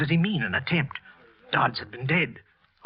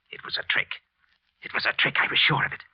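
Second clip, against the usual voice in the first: whisper. Acted. Killer realising police trick.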